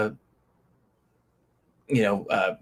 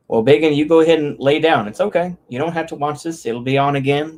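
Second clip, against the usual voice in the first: soothing pet talk; 3 semitones higher than usual. Real, not acted. Comforting his sick pet Bacon.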